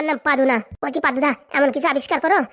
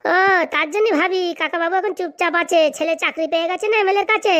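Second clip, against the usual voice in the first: sarcastic realisation; 3 semitones higher than usual. Acted. Taunting uncle over his silence, sarcastic. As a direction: needle them with mock understanding.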